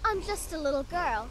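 fake little girl. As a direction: play the helpless child, lightly put on. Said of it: "Rather convincing, don't you think?".

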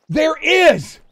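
high-pitched excited confirmation; amazed. Real, not acted. Streamer confirms the rare find, amazed. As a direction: exclaim it in disbelief.

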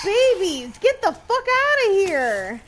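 high panicked yelling; shrieking jackpot winner. Real, not acted. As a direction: shriek at them to leave. Yelling at monster babies.

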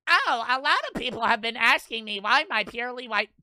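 mock a self-satisfied poster answering fans; mocking influencer. Mocking influencers' fake question replies.

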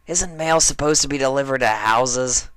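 lazy shout up into the tree as Rainbow Dash; Rainbow Dash calling up. Acted. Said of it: "Dash asked".

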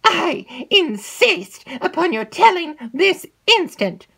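slow, loud command. Acted. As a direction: lay down the order word by word. Mistress presses harder.

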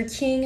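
Qing drawn out slowly as a single character; slow teaching voice on Qing; Mandarin syllable. Shown as a demonstration. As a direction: spell out Qing slowly for learners. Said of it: "The first character".

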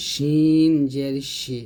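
শিন জের শি, slow hushing sh at the palate; palatal shin. Shown as a demonstration. Teacher shows where shin is made, long palatal শিন. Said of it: "তালুর সঙ্গে লাগিয়ে বলতে".

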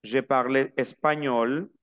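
español with a ñ sound, no G. Shown as a demonstration. Teacher models the French sentence, slow, español with ñ. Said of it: "La G y la N se pronuncia como".

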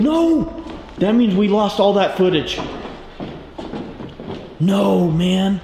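loud, high cry of dismay; dismayed outcry. Real, not acted. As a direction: wail over the lost footage, really upset. Learns the footage is lost.

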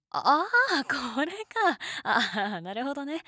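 drawn-out high "ahh" of realizing; surprised realization. Real, not acted. Realizing what the listener saw.

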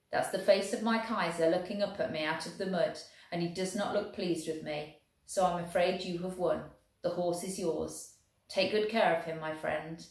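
lightly voiced German officer, careful and friendly; a hint of a polite German soldier. German proposing the coin toss to the Welshman, lightly voiced.

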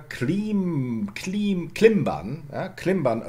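klimban with a short i. Shown as a demonstration. Lecturer demonstrating the Old English word, short vowel.

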